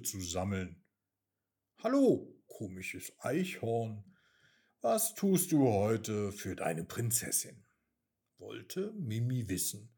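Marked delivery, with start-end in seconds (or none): 1.8-7.6 lightly voiced haughty little princess; spoiled princess mouse. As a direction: ask the squirrel from above, a bit bossy. Mimi greets the squirrel. (leicht hochnäsige kleine Prinzessin)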